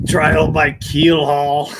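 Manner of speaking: laughing. Acted. Laughing through pirate line.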